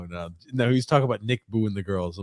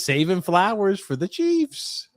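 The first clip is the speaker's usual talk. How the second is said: slow reading; 8 semitones higher, much slower than usual. Retold or imitated. Reading a comment aloud.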